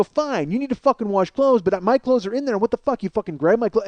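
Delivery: acted-out furious comeback; retold yelling. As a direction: get right in his face, swearing. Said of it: "I'm basically yelling right in his face".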